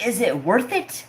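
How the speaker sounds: high, indignant echo with a sharp rise; incredulous echo. Retold or imitated. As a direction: fling the question back in disbelief. Throws dad's question back, outraged.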